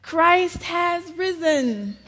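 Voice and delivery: put-on high, slow three-year-old's voice; trembling small voice. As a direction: imitate a tiny, tearful child reciting. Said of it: "I said in a trembling, small voice".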